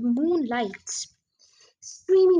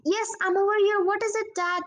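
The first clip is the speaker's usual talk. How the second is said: calling back; 8 semitones higher than usual. A narrator's reading. Boy calling back in dark.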